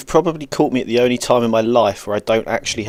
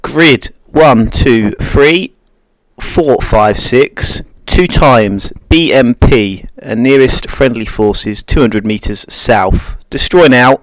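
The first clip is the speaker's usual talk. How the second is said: calm radio call for fire; 4 dB louder, slower than usual. Shown as a demonstration. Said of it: "So you play Romeo one".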